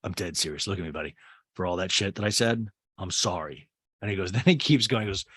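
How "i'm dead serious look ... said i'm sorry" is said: a hint of sincere drunk Craig; imitating Craig. Host mimics Craig apologizing to Shep, lower and earnest. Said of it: "Craig goes".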